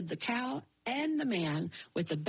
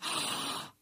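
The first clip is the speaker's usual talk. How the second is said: gasp; 3 dB quieter than usual. Acted. Jack remembers the forgotten gift.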